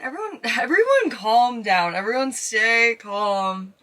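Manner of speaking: slow, giggling plea to stay calm; mock-calm through giddy laughter; laughing. Real, not acted. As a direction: tell everyone to calm down while laughing. Bookings flood in.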